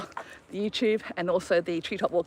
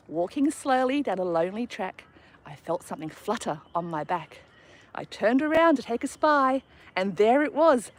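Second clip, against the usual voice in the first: put-on rhythmic, sing-song reading of a children's poem; poem recitation; 2 semitones higher than usual. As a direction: recite it like a kid's rhyme at a school assembly.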